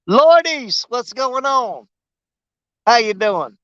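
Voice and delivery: playful, badly faked British greeting; botched British accent. Greeting someone from across the pond in a muddled British accent. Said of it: "I'm doing the wrong accent".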